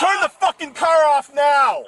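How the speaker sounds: yelling a furious command; angry shout. Real, not acted. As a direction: bark it at full volume. Officer yells command at driver.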